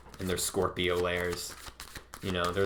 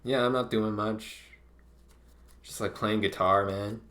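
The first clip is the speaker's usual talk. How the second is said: innocent casual Scorpio. Retold or imitated. Scorpio stepping out of the lair, acting breezy and innocent. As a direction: play it cool like nothing happened. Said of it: "they come out and they're like".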